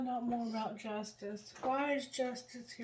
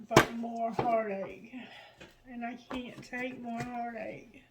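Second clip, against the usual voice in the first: tearful, breath catching mid-word; choked up, catching breath; catching breath midword; 4 dB louder than usual. Real, not acted. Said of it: "I'm sorry I'm emotional".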